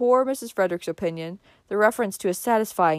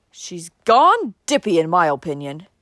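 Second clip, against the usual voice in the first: growling, loud grumble; 3 semitones lower, 5 dB louder than usual. Narrator reading Uncle Benjamin's remark about a feverish woman, growling. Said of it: "growled Uncle Benjamin".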